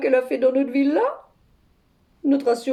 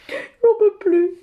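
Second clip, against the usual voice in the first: higher, drawn-out comic lament; at wits' end; 5 semitones higher, 3 dB louder, slower than usual. Acted. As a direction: moan it slowly into the phone. À bout, se plaint au téléphone. (à bout, en gémissant)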